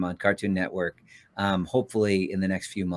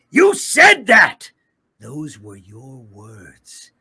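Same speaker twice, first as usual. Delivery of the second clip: angry; 14 dB louder, much slower than usual. Acted. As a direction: hurl it back at him. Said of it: "to get Obito".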